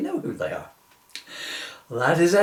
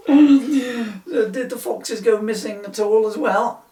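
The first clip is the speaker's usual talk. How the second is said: stifled laughter; 7 semitones higher, 4 dB louder, slower than usual. Real, not acted. Policeman breaking up mid-question.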